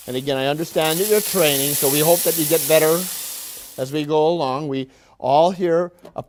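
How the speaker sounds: a lightly hammed-up, cheery manager lecturing his workers; mock factory boss. Factory manager greeting his willing workers, lightly hammed-up boss voice. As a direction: play the upbeat boss who patronises the staff. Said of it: "I might supply some of the dialogue".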